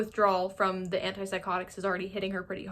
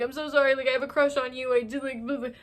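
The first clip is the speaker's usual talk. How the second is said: higher, lightly pleading imitation; mock breakdown; 4 semitones higher than usual. Misty confessing her crush to the coach, mock breakdown. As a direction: gush a half-hearted, hammed-up apology. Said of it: "breaks down and is like".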